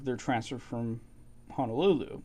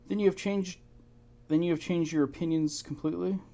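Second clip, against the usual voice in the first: higher, incredulous scolding; scolding outburst; 6 semitones higher than usual. Retold or imitated. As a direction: imitate her going off at him. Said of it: "she starts going off".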